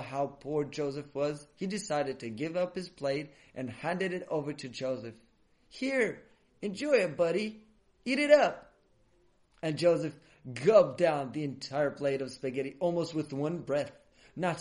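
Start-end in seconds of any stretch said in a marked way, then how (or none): 5.7-8.7 higher-pitched, encouraging handover; generous offer. A narrator's reading. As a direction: urge him to eat, ending high and loud. Boy generously hands food to Joseph.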